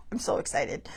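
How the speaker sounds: a secret little thrill, whispered; whispered excitement. Real, not acted.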